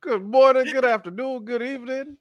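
high, bright-announcer greetings; sing-song greeting. Real, not acted. Host greeting listeners everywhere, high sing-song. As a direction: greet every time zone with flair.

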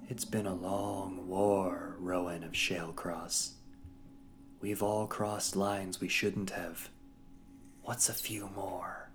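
cold menacing villainess. Acted. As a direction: let each threat sink in slowly. Inquisitor menacing captive.

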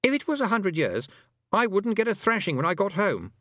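put-on high boy's voice, dismayed; boy character, dismayed. A narrator's reading. Roland dreading a thrashing at home, dismayed high boy.

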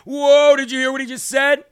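mock-alarmed Trump, raising the voice on whoa; Trump impression. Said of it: "President Trump made it a soundbite by going".

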